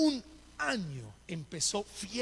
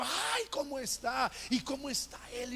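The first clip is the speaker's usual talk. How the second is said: effusive greeting; 5 semitones higher than usual. Retold or imitated. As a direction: act out a delighted phone greeting, stretching the words. Saludo efusivo actuado por teléfono. (saludo efusivo imitado)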